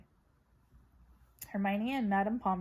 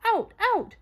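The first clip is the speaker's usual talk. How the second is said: shouted; 7 semitones higher, 7 dB louder than usual. A narrator's reading. Madame Pomfrey throwing the team out, loud shout. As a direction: bellow them out of the ward.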